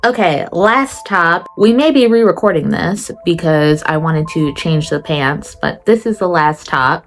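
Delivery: talking around whitening strips. Real, not acted. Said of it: "Ignore my teeth whitening strips".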